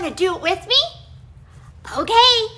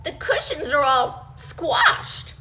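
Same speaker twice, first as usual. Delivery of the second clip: indignant shout; 4 dB louder, slower than usual. Acted. Mommy bear indignant.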